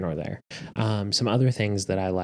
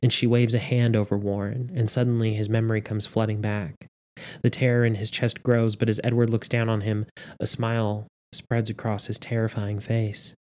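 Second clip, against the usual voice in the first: measured audiobook narration; story narration. A narrator's reading. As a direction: read the story aloud with steady drama. Reads story aloud.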